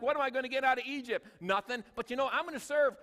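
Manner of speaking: a hint of Joseph resolving to serve; preacher voicing Joseph resolving to serve anyway. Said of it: "Joseph was like".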